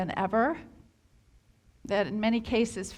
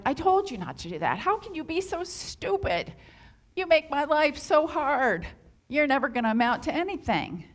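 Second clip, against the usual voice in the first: mock yelling parent; 4 semitones higher than usual. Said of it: "a parent who's yelling at their child".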